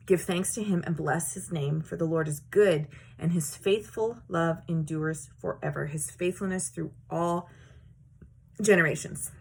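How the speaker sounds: solemn reading of the verse; scripture reading. Acted. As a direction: read the verse reverently. Reads scripture.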